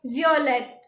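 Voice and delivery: वियोलेट said vyo-let, French style; French pronunciation of वियोलेट; French violet. Shown as a demonstration. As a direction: glide through the start of वियोलेट as vyo. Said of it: "हम इसको बोलेंगे".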